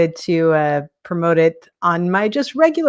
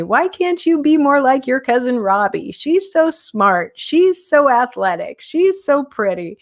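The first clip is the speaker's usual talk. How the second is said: nagging grandmother; 6 semitones higher than usual. Retold or imitated. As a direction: drag out the comparison like a nagging grandmother. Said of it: "she used to say to me".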